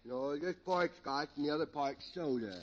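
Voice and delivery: slurred, tipsy comedy character; comic drunk. Acted. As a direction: play a rambling drunk for laughs.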